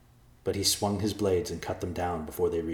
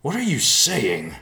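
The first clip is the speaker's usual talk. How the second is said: high, loud, drawn-out protest; distraught protest; 8 semitones higher, 9 dB louder than usual. A narrator's reading. Riverpaw challenges his father's plan, distraught. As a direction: cry it out in disbelief.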